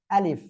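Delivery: আলিফ with a light puff of air on the final f; teacher's model আলিফ, airy final f; articulation demo. Shown as a demonstration. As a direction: say আলিফ carefully, releasing a little air at the end. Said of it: "হালকা বাতাস বের করে উচ্চারণ".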